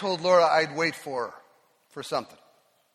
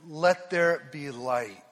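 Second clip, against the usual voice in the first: solemn quote; 4 semitones lower, much slower than usual. Acted. Quoting God in scripture.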